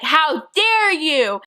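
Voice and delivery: slow, drawn-out retold outrage; mock indignant outburst. Classmate cussing out the teller in class, mock indignant. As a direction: stretch it out like an offended accuser. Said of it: "started cussing me out".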